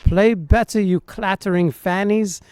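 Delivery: lightly mimicked English accent, Monty Python style; imitated English insult comedy. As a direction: echo a comic British insult in an English accent. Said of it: "like that insult Monty Python comedy".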